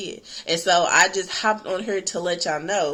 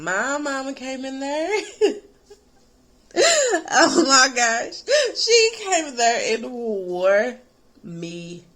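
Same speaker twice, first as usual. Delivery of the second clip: words breaking up with laughter, slow and higher; laughing; 6 semitones higher, slower than usual. Real, not acted. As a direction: laugh through it as the memory hits. Laughing while recalling the whooping.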